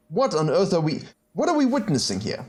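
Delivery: what on earth am I seeing; surprised disbelief. Real, not acted. Disbelief at opponent's play.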